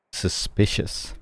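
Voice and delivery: hushed, slow, breathy "Suspicious."; mock-detective whisper of "Suspicious."; suspicious mutter. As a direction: drag out "Suspicious." under the breath. Streamer reacting to game dialogue.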